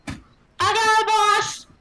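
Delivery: high, loud, eager little helper; excited Amicus. Acted. Amicus answers an order to analyze the language, high and eager. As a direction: pipe up high and eager to the boss. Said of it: "and Amicus goes".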